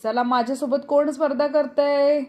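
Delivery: ordinary delivery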